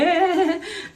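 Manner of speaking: high, imitated phoney laugh; mock fake laugh. Imitating wicked men faking niceness, mock fake laugh. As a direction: put on a high false laugh. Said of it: "they like faking".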